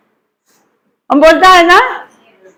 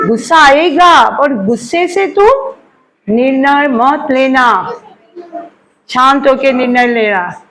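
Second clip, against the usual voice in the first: slow solemn scripture. Retold or imitated. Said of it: "भगवान ने बोल के रख-, लिख के रखा है".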